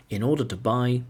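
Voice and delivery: "in order to buy" as one linked chunk; chunked phrasing. Shown as a demonstration. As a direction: run "in order to buy" together, then break. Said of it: "chunk two".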